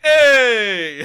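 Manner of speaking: loud, high startled "Hey!" from the crowd; sudden shout. Acted. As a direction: bark it out like an annoyed bystander. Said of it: "people in the crowd turn around and are like".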